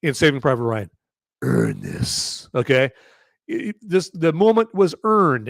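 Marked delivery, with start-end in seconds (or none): 1.4-2.5 Tom Hanks quote. Retold or imitated. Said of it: "like Tom Hanks says".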